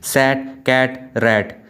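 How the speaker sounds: "सैट, कैट, रैट", each vowel unstretched, pauses between; rapid cut. Shown as a demonstration. Teacher showing vowels are not stretched, short "सैट, कैट, रैट". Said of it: "लंबा खींचने की कोशिश नहीं".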